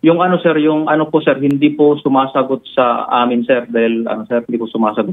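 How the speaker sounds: hesitant, halting start that tumbles into a repeat; flustered stumbling. Real, not acted. Officer dodging the host's question, flustered and stumbling. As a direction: stumble over fillers, restarting the answer. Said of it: "Sir, nabubulol ka na".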